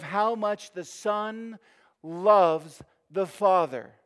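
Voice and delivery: fervent sermon build; impassioned preaching. Real, not acted. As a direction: drive toward the final phrase, then land each word. Preacher carries on at height.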